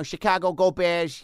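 lightly voiced Chicago cop; a touch of a hearty Chicago beat cop; mustache cop. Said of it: "I'd put on this big mustache".

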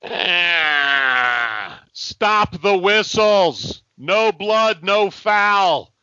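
put-on cranky old-timer yelling at refs; grumpy old fan complaining; old man rant.

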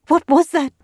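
high, loud, catching fearful cry; hitching voice. A narrator's reading. Cadet on the bus, hitching scared cry. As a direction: gasp it out in terror. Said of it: "in a hitching voice".

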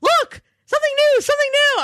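high, bright, singsong taunting; gleeful showing off. Retold or imitated. Teasing Elsie with news she lacks, high singsong. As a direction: wave new gossip under her nose. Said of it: "it made me so happy to be like".

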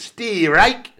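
shouted catchphrase, pitch up; wrestler catchphrase shout. Retold or imitated. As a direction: belt it out like a ring entrance. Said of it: "And his catchphrase is".

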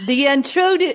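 tentative Australian accent. Shown as a demonstration. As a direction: try out an Aussie accent. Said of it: "say a little Australian again".

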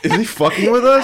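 high, loud incredulous question through laughter; amused, can't-believe-it outburst; laughing disbelief. Real, not acted. Incredulous, group laughing at caller.

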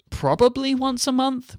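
high and slow, stretched out wistfully; drawn-out mock sigh. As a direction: stretch it out in a high, put-upon voice. Joking about a monthly schedule.

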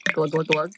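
soft glug glug pour sound; glugging pour. Pretend. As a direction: mimic wine glugging from a bottle. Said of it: "Oh, some sound effects".

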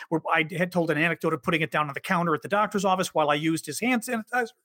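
no breath, running out of air; all in one breath. Real, not acted. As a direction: rush it all without breathing. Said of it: "I tried to say that whole sentence without taking a breath".

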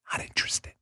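whispered flat refusal; curt whisper. Retold or imitated. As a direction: breathe it, shut the door. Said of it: "What's your answer?".

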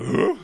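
loud, high questioning huff; a dog's eager grunt. Retold or imitated. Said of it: "he's like".

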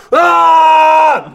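high loud shout; psyching up yell. Retold or imitated. Actor psyching up again, loud high yell. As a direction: blast out a pre-take scream.

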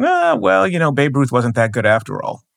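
put-on dismissive second-guessing; dismissive mock quote. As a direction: mimic a skeptic shrugging off a legend. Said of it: "we don't look at them and go".

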